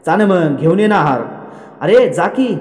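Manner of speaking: mildly acted impatient shouting; loud yelling. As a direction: order him off in a mock yell. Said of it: "असं तो मोठमोठ्याने ओरडत असतो".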